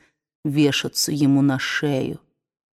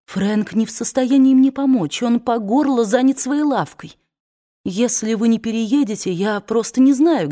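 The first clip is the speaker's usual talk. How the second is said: put-on higher, urgent persuading young woman; 5 semitones higher than usual. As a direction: press him, half pleading. Scarlett persuading Ashley.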